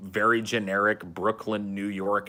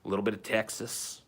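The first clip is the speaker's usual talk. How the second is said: lilting, lightly raised country accent; 2 semitones higher than usual. Shown as a demonstration. Recalling winning over the downstairs neighbors, country accent. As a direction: lilt back into a down-home country accent. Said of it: "lilt back into the little country accent".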